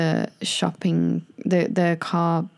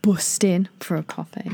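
whispered. Shown as a demonstration. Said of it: "British version demo".

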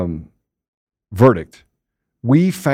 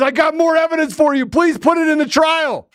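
hammed-up evidence voice; 11 semitones higher than usual. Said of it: "and says".

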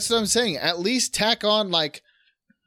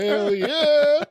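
laughing cheer; 9 semitones higher, 3 dB louder than usual. Real, not acted. Joking about seven listeners.

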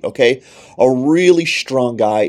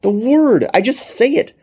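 higher, commanding voice of Jesus; voice of God; 8 semitones higher than usual. Acted. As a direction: proclaim it as the all-powerful Lord. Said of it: "He says".

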